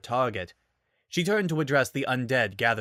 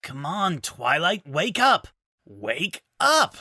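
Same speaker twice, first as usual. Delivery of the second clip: much higher, louder pleading cries; urgent calling; 7 semitones higher, 3 dB louder, slower than usual. Acted. Rainbow Dash rousing dazed Twilight, urgent calling. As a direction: shake her awake with your voice. Rainbow shaking unconscious friend.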